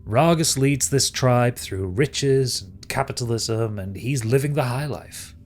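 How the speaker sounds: lightly theatrical villain, measured delivery; scheming villain. Acted. Villain taunts exiled Stigveld about Ragus, lightly theatrical. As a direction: draw out the villain's lines a little, slowly. Game master voices villain.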